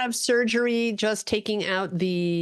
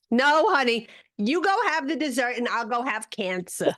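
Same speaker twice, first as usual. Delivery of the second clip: Jewish mother voice; 5 semitones higher than usual. Retold or imitated. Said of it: "it's almost Jewish".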